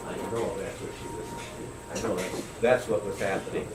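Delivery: soft, low, choked quiet. Real, not acted. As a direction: hold back tears. Emotional quiet ending.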